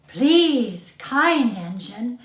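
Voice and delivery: loud, begging please; pleading cry. Acted. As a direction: call out to the engine, pleading. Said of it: "cried all the dolls and toys together".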